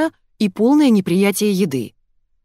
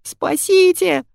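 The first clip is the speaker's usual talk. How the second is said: much higher, slow shrill squeal; 12 semitones higher, 3 dB louder, much slower than usual. A narrator's reading. Fyodor squeals for help from the floor. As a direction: shriek for rescue. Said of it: "верещал Фёдор".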